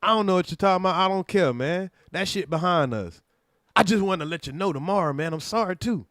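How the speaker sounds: mock exaggerated apology. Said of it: "and I said".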